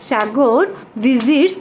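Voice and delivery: slow, drawn-out model reading; say-along model. Shown as a demonstration. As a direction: lead the class so they can repeat along. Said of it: "আমার সাথে বলো". (সবাইকে সাথে বলানোর জন্য ধীরে ধীরে পড়া)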